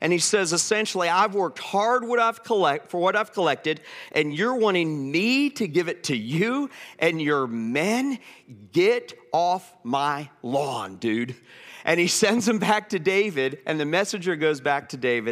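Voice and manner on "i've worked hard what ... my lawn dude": mock snide, sarcastic, provoking, needling delivery. Retelling how Nabal answers the messenger: imitating Nabal's sarcastic provoking. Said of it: "Nabal's way of just poking".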